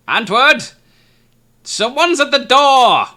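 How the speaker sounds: high, loud call up the house; old woman shouting. Acted. Old woman yelling to her husband at the table, loud high call. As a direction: yell for your husband across the hallway. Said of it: "she shouts at him".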